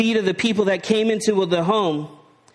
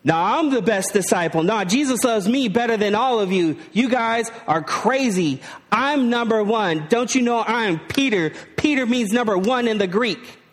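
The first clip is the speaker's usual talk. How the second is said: boasting disciple; 2 semitones higher than usual. Acted. Preacher voicing disciples boasting.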